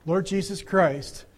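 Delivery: slow prayer lead. Shown as a demonstration. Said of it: "Okay, ready?".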